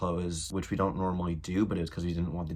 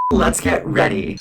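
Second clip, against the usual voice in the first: loud whisper; 12 dB louder, slower than usual. Acted. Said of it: "intro catchphrase, whispered".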